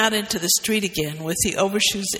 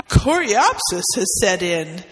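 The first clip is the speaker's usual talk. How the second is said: nervously; 4 dB louder than usual. Acted. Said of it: "said Renshaw nervously".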